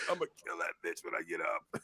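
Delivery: low quiet vengeful mutter; seething mutter. Retold or imitated. Winded boy planning revenge, low quiet mutter. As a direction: grumble it under your breath, low. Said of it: "all I can think about is".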